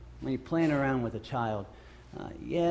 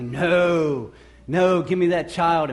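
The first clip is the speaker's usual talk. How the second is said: louder mock scolding; disciples shooing; 2 semitones higher, 6 dB louder, much slower than usual. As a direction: shoo the kid away, louder. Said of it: "the disciples go".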